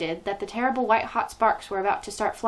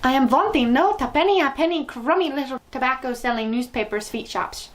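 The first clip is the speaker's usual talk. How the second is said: shouting witch; 4 semitones higher, 3 dB louder than usual. Acted. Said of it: "shouted the Grand High Witch".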